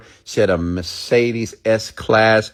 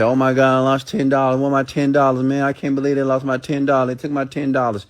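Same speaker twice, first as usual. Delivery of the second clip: voicing a panicked loser of ten dollars, a bit higher; mock panic over lost money; 4 semitones higher than usual. Speaker mocks a listener who lost ten dollars, lightly panicked. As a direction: play the fretting listener, mildly hammed. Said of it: "and you say".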